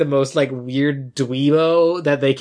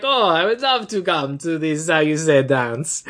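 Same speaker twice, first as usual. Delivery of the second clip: mock Italian accent, drawn out; slow put-on Italian, feeling for the word; Philippe; slower than usual. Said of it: "accent is Italian".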